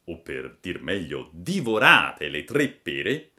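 usual speaking voice

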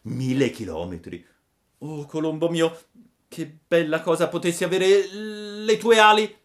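put-on rising, high child puppet voice; wistful puppet. A narrator's reading. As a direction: start in dismay, climb into loud longing. Puppet wishes for the pigeon's wings.

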